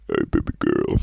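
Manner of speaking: very low, breathy, hammed-up seductive voice; mock Roblox YouTuber. Mocking Roblox YouTubers with a low seductive purr. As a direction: parody a Roblox YouTuber purring into the mic. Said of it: "Roblox YouTubers that are like".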